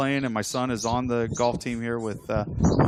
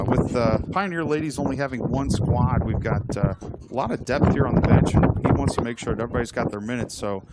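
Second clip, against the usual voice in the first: play-by-play; 4 dB louder than usual. Acted. Live play-by-play in the break.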